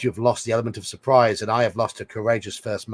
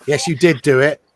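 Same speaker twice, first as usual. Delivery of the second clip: louder "Yes, you did do it." with "did" punched hard; stress on did; 4 semitones higher, 10 dB louder than usual. Shown as a demonstration. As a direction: insist on it, hit "did". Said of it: "Who's denying they did it?".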